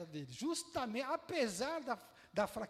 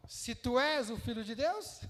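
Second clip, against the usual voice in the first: devil's taunt; 6 dB louder, slower than usual. Acted. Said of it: "primeira frase do diabo".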